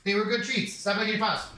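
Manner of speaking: 1 pet scolding. Real, not acted. Scolding dog.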